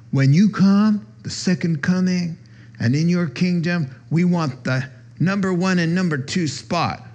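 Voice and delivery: lightly voiced eager brothers; mock pleading disciples. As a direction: angle for favour like kids. Disciples asking for top spots.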